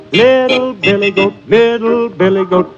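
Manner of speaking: high, sing-song naming; small-goat pitch, held high and even; little goat voice. A narrator's reading. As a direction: lift it up high for the small goats. Names small goats, then big one.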